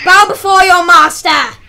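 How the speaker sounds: commanding villain, loud and harsh; cold rasping evil emperor. Pretend. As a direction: bark it like a Sith lord.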